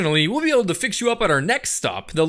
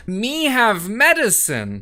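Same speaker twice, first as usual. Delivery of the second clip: dumbed-down pitch; slower than usual. Acted. Salesman talks down.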